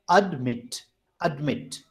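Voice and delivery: "admit" with the weight on "mit"; stress on second syllable. Shown as a demonstration. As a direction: lighter "ad", firmer "mit" in "admit". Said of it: "mat is stressed".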